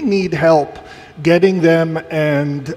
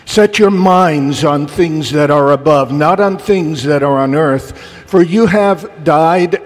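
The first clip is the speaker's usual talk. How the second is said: scripture reading. Acted. Reads scripture aloud.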